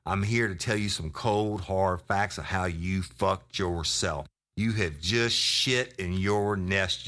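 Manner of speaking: emphatic, drawn-out retold scolding; forceful dressing-down. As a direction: drive each word home to a suspect. Officer lecturing the suspect forcefully.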